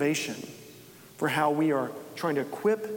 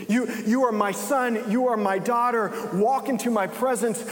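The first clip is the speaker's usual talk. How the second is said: higher, slow, tender voice of a loving father; tender Jesus; 5 semitones higher, slower than usual. Acted. Jesus tenderly welcoming a guilty believer, slow and high. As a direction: speak each word gently, as if cherishing a child. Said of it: "And Jesus looks at you and says".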